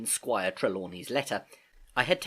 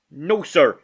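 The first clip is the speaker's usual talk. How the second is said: put-on nervous old sailor; 4 semitones higher, 10 dB louder than usual. A narrator's reading. Morgan answers.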